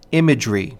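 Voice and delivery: "imagery" stressed on the first syllable, two light after; dactylic stress. Shown as a demonstration. Lecturer giving an example of a dactyl, "imagery" stressed on "im". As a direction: say "imagery" strong, weak, weak. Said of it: "stressed syllable followed by two unstressed".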